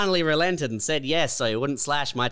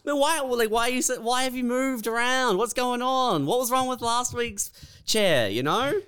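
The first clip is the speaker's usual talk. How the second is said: mock concern; 10 semitones higher than usual.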